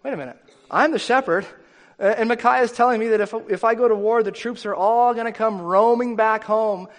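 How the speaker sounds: alarmed king. Acted. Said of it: "And Ahab's thinking".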